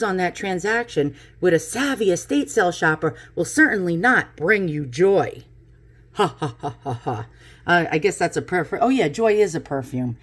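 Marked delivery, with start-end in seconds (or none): 6.1-7.3 dry, low forced ha-ha; softly fading mock laugh; fake laugh. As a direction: laugh half-heartedly, trailing off lower. Laughs at own Joy pun.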